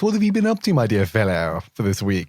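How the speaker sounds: a lightly put-on grand gentleman; King James voice. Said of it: "Give us a bit of King James".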